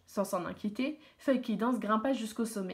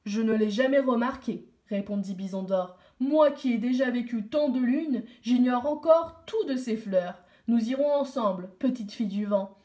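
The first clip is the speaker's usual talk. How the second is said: lightly voiced chief, louder and firm; grateful chief; 4 dB louder than usual. Chief answers the girl.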